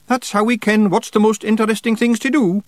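high, quick Scottish pixie voice; cheeky little Scots warrior; Scottish Feegle voice. A narrator's reading. Rob Anybody speaks.

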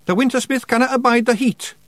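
cheeky little Scots fighter; Scottish pictsie. A narrator's reading. Rob Anybody remarking on the picture in a Scottish voice.

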